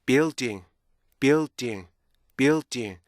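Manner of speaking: BUILDING joined up, keeping the held L before a stopped D; "building" as bee-ul, tiny stop, ding; blended building. Shown as a demonstration. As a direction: join the beats of "building" into one word with its inner rhythm. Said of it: "이렇게 발음이 될 수 있도록".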